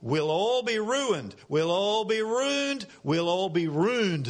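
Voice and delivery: drawn-out Aussie contraction, "ruined" squashed towards "rooned"; Australian slang. Shown as a demonstration. Preacher demonstrating the poem's catchphrase, Australian slang. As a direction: run "We'll" together in broad Australian slang. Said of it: "hear the contraction of the Australian slang".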